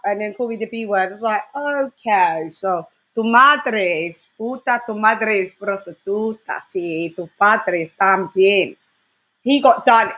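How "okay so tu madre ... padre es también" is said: slow, drawn-out retort in Spanish; measured Spanish trash talk, recounted; retold Spanish comeback. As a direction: retell your slow comeback, switching into Spanish.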